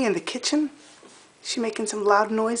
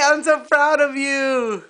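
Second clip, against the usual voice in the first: proud tears; 5 semitones higher, slower than usual. Real, not acted. After baby climbs, emotional.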